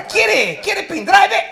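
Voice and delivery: high, loud hawker voice in Spanish; Paraguayan street hawker. Retold or imitated. Paraguayan vendor offering a pendrive to a tourist, loud and high. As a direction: call out like a street seller.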